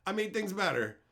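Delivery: high, loud gloating; hammed-up triumphant writer; smug gloating mockery. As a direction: crow over a fake victory. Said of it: "some guy who's like".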